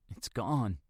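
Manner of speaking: soft, understated whimper; mild whimper. Acted. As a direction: barely get it out. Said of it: "managing little more than a whimper".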